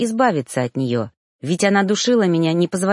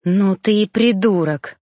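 spat out; 2 semitones higher than usual. Acted. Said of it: "выплюнула кореглазая".

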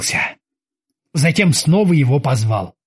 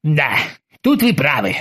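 sad agreement. Acted. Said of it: "всё так же печально согласился Оззи".

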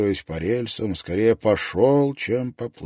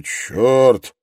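cursing; 3 semitones higher, 5 dB louder than usual. A narrator's reading. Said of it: "выругался Клеменс".

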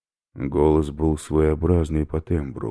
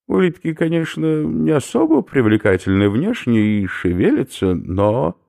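high, loud lecturing professor; a delighted academic explaining his find; eccentric professor; 11 semitones higher, 6 dB louder than usual. Acted. Professor lectures captives on snail protein, high eager voice.

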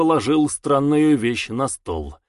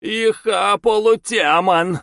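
high, loud snarling creature voice; demon snarl; 8 semitones higher, 4 dB louder, slower than usual. Acted. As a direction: snap back like a feral demon. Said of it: "огрызнулся братец".

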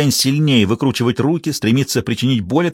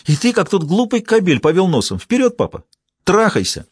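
bitter furious jeer; 8 semitones higher than usual. Acted. Daughter mocking her father to his face, furious. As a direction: voice climbing higher into a mocking shriek.

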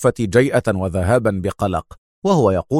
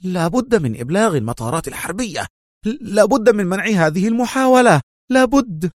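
much higher, rising to a cry; urgent shouting; 11 semitones higher than usual. A narrator's reading. Officer on the phone shouting urgent orders. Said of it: "وهو يصيح".

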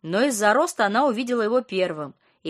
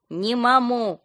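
higher, muffled sleepy moan; mumbled groan; 4 semitones higher, 4 dB louder, much slower than usual. A narrator's reading. Friend woken by a call, muffled mumble. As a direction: garble "Не маму" through a half-asleep mouth. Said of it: "промычала в ответ".

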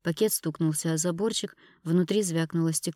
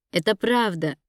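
louder yell in reply; shouting back; 3 semitones higher, 5 dB louder than usual. A narrator's reading. Ira shouting back at Dina, firm yell. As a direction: throw it back at her, hard. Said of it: "закричала она в ответ".

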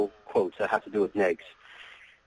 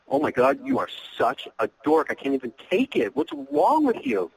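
high, teasing mock disbelief; playful mock exasperation; 10 semitones higher than usual. Shown as a demonstration. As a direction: tease her like she's hopeless.

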